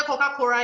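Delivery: COCA-COLA said as Coca-Cora; R in place of L. Shown as a demonstration. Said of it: "no L".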